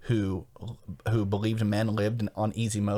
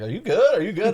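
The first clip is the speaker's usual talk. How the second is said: high, loud mock-worried questions; mock concern; 10 semitones higher, 7 dB louder than usual. Friends messaging after an odd text, exaggerated high concern. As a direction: imitate alarmed friends checking in.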